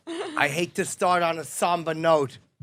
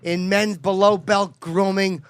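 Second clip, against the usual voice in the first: ad read. Acted. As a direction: read it like a host ad spot. Ad read for sponsor.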